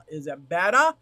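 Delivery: testing the mic, loud and close; asking loudly if the mic sounds better; loud mic check. Real, not acted. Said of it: "Maybe if I point it at me".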